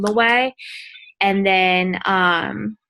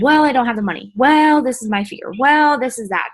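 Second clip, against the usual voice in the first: mock excuses; 4 semitones higher, 3 dB louder than usual. Prospect making excuses to a recruiter, mocked. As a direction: reel off mock excuses, each Well pushed up and loud.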